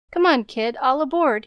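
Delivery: put-on the newsboy calling the girl to follow; cheery call. A narrator's reading. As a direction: call her along, cheerily. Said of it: "he called cheerily".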